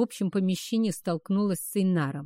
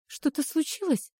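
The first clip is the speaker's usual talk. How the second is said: put-on higher, guarded girl's question; lightly voiced wary young woman; wary Erika; 6 semitones higher than usual. A narrator's reading. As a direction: ask it alert and uneasy. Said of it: "насторожилась Эрика".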